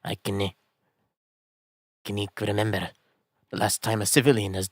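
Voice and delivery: put-on a light Scottish accent, a touch soft; a haughty Scottish prison governor. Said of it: "Oh, you're Scottish".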